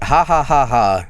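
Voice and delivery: spaced-out, spoken "ha ha"; forced fake laugh. Streamer hearing his own voice mimicked, forced laugh. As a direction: laugh it off unconvincingly, syllable by syllable. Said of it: "where I'm like".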